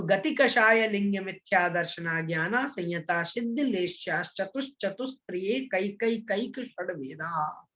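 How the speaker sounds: connected, even sutra chanting; model recitation. Shown as a demonstration. Teacher modelling the pronunciation for students, joined-up recitation. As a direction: recite the whole verse in one flow. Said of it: "ध्यान रखना है उच्चारण में".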